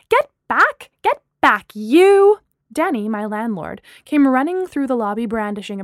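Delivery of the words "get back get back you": loud, high-pitched yell; frantic shouting. Acted. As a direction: shout as if chasing off an attacker. Landlord charges in with broomstick.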